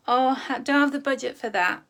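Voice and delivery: loud, firm and bright; firm refusal. Shown as a demonstration. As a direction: say it proudly, owning the choice. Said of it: "So I didn't say, "I can't".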